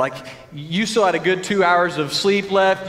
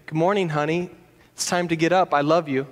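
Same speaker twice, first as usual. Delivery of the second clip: tender; 2 semitones lower, faster than usual. Retold or imitated. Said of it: "all I have to do is say".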